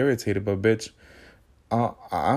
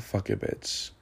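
whispered resolve; 7 dB quieter, slower than usual. Retold or imitated. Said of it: "and then I was like".

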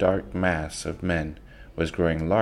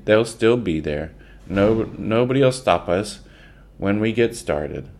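booming big man; 4 semitones higher, 4 dB louder than usual. Acted. Big Jerry booming at crowd.

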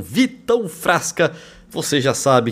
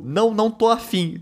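higher, breezy mock refusal; imitating Jojo; 7 semitones higher than usual. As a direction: toss off the no like Jojo. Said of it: "Mas o".

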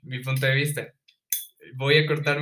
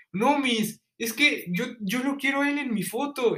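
higher, whiny mock plea to the teacher; imitating friend; 8 semitones higher than usual. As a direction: pitch it up like a pleading kid. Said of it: "Y tú le dijiste".

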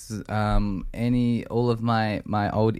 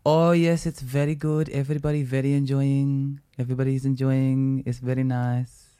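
lightly imitated Indian English accent, higher and lilting; imitating Indian accent; 4 semitones higher than usual. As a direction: impersonate a cheerful Indian clubgoer, a little higher. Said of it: "my old Indian friend".

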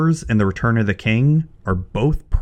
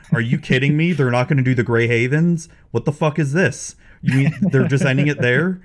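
higher-pitched mock indignation; retold pissed-off disbelief; 5 semitones higher than usual. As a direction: replay an outraged fan's reaction. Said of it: "I remember feeling pissed".

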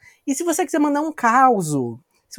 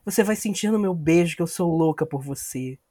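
seductive; 4 semitones lower, 5 dB quieter than usual. Acted. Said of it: "esse não sou eu cantando pra Tainá".

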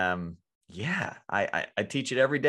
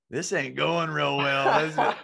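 honest admission; 3 semitones higher, 4 dB louder than usual. Retold or imitated. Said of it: "you're just honest and say".

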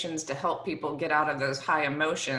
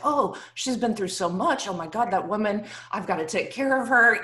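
louder, higher protective gush; anxious daughter protecting her mom; flustered defending; 3 semitones higher, 4 dB louder than usual. Retold or imitated. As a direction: rush to defend her mother. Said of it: "I was like".

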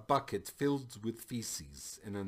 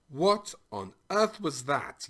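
louder, higher outburst from a king; startled yell; 6 semitones higher, 6 dB louder than usual. A narrator's reading. King reacts to a huge explosion, yelling. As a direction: yell it in alarmed disbelief. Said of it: "yelled the king again".

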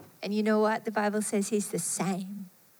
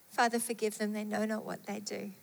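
hushed plea; 6 dB quieter, faster than usual. Retold or imitated. Jesus on the cross quoted.

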